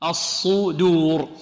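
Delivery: الصدور with heavy ṣād and light dāl; slow, drawn-out recitation of الصدور; careful tajweed pronunciation. Shown as a demonstration. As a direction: recite الصدور with thick ص, thin د. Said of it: "نفخم الصاد".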